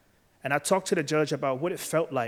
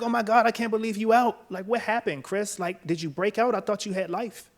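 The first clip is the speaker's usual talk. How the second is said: high, loud, astonished mother's voice; excited mom; 8 semitones higher, 4 dB louder than usual. Retold or imitated. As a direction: squeal it like a shocked, thrilled mom. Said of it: "and she was like".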